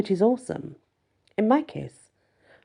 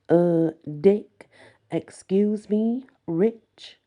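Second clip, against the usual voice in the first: quoting Bender; 3 semitones higher, 4 dB louder, much slower than usual. Retold or imitated. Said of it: "and I quote".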